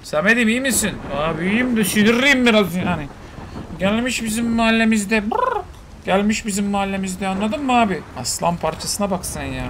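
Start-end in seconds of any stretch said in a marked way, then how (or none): 1.1-5.3 voiced pet grumbling. Voicing Samet annoyed. 5.3-5.6 high rolled brrr noise; high brr growl. Pretend. Imitating animal growl.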